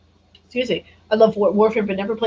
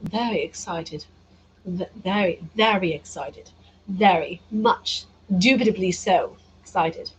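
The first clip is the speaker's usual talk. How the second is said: put-on British accent; 3 dB quieter than usual. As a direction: toy with a mock-British lilt. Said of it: "put on a British accent".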